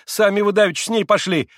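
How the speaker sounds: high, loud protesting maid; frightened maid. A narrator's reading. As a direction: protest in fear.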